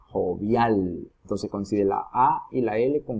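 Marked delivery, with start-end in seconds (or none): 0.1-1.1 jovial with a lengthened final "-vial"; jo-VIAL, weight on the ending; stress on last syllable. Shown as a demonstration. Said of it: "En la última sílaba".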